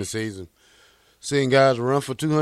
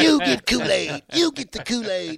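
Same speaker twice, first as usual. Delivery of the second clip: hype man; 11 semitones higher, 3 dB louder than usual. Retold or imitated. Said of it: "V J was on O Street passing out Kool-Aid".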